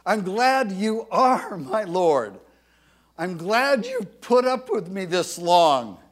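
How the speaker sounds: slow, earnest thanks; grateful prayer. Retold or imitated. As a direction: thank the Lord sincerely. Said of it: "he knew I meant".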